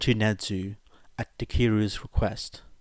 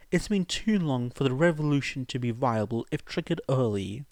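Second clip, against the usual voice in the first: higher, lightly voiced Nedzu; 6 semitones higher than usual. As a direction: reason it through in Nedzu's higher voice. Nedzu continues reasoning.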